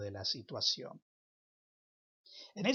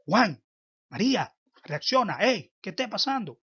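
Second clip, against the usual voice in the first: calling out; 7 semitones higher, 11 dB louder than usual. Acted. Someone calls you out of shock.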